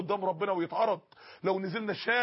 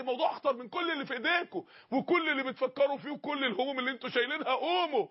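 urgent call; 4 semitones higher than usual. Retold or imitated. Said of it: "الناس تقف تصرخ كده".

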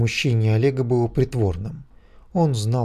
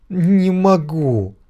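very slow, higher cry of despair; wailing; 6 semitones higher, 5 dB louder, much slower than usual. A narrator's reading. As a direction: break down and wail it. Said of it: "упал на колени и заревел". (с рёвом, надрывно и медленно)

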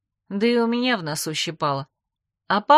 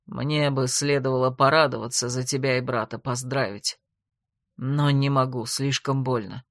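much lower, subdued; pained; 6 semitones lower than usual. A narrator's reading. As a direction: confess the hurt heavily. Rejected friend admits pain. (с болью, глухо и низко)

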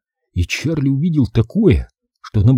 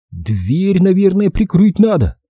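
put-on hesitant boy, voice raised high; unsure; 8 semitones higher, slower than usual. A narrator's reading. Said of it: "неуверенно предложил Чарли".

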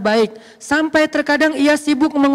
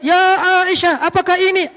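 mock shout; 5 semitones higher than usual. Imagining the Prophet suddenly calling Aisyah, mock shout. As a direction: call it out in a mock sermon shout. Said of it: "tiba-tiba teriak".

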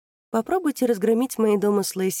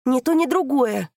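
loud denial; 6 semitones higher, 6 dB louder than usual. Acted. Daughter shouts denial.

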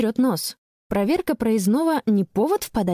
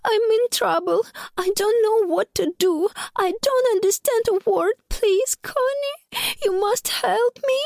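trembling voice; 13 semitones higher than usual. Acted. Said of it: "дрожащий голос говорит".

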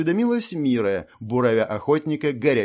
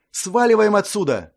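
high, loud urgent command; urgent call; 8 semitones higher, 5 dB louder than usual. A narrator's reading. Mira pulling Ashley away, urgent. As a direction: get them out now. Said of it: "заявила Мира".

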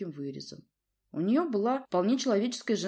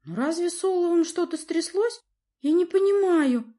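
much higher, louder desperate plea; pleading girl; 12 semitones higher, 7 dB louder than usual. A narrator's reading. Daughter begs her father to explain, pleading. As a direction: beg him to explain. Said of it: "взмолилась она".

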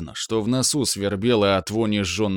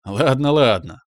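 cheerful laughing reply; 3 semitones higher, 4 dB louder than usual. A narrator's reading. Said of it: "светло и весело рассмеялся отец".

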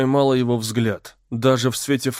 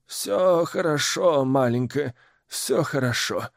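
soothing; 3 semitones higher than usual. Acted. Old woman soothing child.

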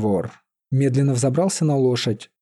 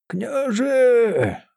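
calling out; 11 semitones higher than usual. A narrator's reading. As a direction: shout «Княже» from afar. Seer calls out running.

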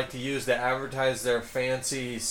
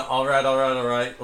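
McConaughey impression. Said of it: "Matthew McConaughey of cars".

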